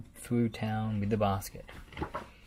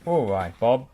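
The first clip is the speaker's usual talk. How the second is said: loud, revving-up call to Bob; 11 dB louder than usual. Acted. Muck calling loudly to Bob over his revving engine.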